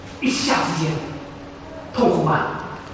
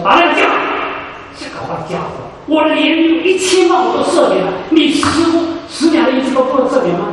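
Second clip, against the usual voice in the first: stern master; 4 semitones higher than usual. Retold or imitated. Master rebukes unforgiving servant.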